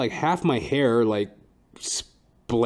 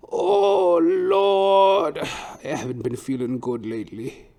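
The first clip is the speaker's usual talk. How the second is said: put-on old Trinidadian hairdresser; much slower than usual. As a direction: groan it out like an exhausted old barber. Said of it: "he's like".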